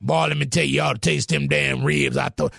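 a hint of a boastful Southern barbecue cook; mocking a braggy pitmaster in a mild fake country accent. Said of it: "they always try to use a fake country accent".

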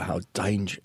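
a light, accidental British accent; touch of British on the vowels. Shown as a demonstration. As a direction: slip briefly into a British accent. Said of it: "I did a British accent".

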